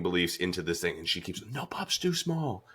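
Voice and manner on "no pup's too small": high, slow, held-back mock battle cry; climactic catchphrase. Retelling the heroine charging the meteor, high strained catchphrase.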